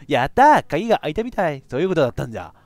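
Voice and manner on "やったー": louder happy cheer; excited cheer. Real, not acted. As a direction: celebrate the unlock. Door unlocks in game.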